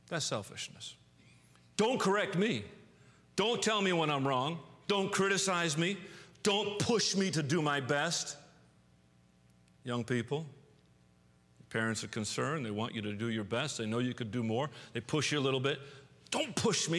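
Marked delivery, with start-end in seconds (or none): 1.8-8.4 whiny cry of self. Acted. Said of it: "the cry of self is this". 16.3-17.0 sulky protest. Acted. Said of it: "You don't say it, but you act it".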